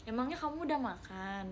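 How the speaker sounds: soft, caring question with the added nya; tender from the heart. Shown as a demonstration. Viewer asking softly if someone has eaten, tenderly caring. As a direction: ask gently, like you truly care. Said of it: "dari hati lembut gitu".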